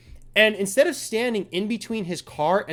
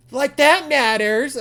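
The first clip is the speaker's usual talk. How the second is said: laughing sarcasm; 9 semitones higher, 8 dB louder, slower than usual. Retold or imitated. Mocking the mother's reaction.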